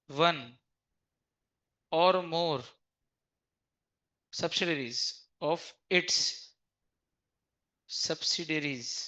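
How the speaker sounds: drawn out word by word for note taking; slow dictation. Shown as a demonstration. Teacher dictating the definition to the class, very slowly. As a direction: read the English very slowly, like dictating. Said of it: "reading the definition aloud".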